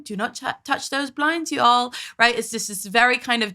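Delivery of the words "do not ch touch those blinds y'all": mock-gentle call; imitated gentle scolding. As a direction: imitate an overly gentle parent. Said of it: "saying it very gently".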